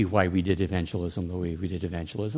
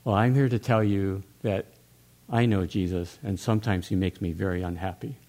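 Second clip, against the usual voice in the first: put-on Brooklyn Jewish accent. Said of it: "Brooklyn Jewish accent here".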